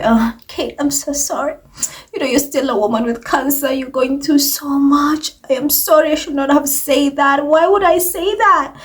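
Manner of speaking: mock fake sorry tone; mock sarcastic apology. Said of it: "adds tons of sarcasm".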